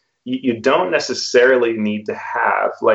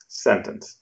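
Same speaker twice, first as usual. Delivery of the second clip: drawn-out last word; 6 dB quieter than usual. Shown as a demonstration. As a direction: stretch the final word out, softer. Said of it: "drags out the last word in their sentence".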